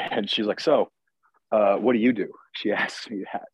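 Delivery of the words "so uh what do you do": unimpressed. Retold or imitated. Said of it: "like, unimpressed".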